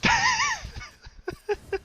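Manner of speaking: very high, wheezy giggle from frayed nerves; helpless high laugh out of frustration; squealing laugh, trailing off; nervous laughter. Real, not acted. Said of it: "cidden sinirlerim bozuldu".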